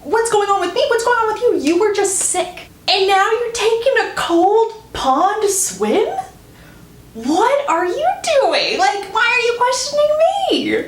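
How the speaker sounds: high, stretched-out mock indignation; indignant retort. Heroine turning his questions back on him, indignant.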